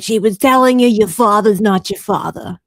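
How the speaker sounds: put-on loud Caribbean-accented medium; blunt, forceful Caribbean TV psychic; Madame Cleo. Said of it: "the Caribbean medium".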